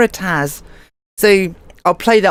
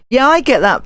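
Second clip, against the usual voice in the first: really mean it, I get that; emphatic agreement; 5 semitones higher than usual. Real, not acted. Agreeing with a chat viewer.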